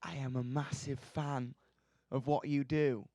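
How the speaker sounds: quiet, earnest gush; awkward fan gush. Retold or imitated. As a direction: mumble it starstruck. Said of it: "grabbed her hand and went".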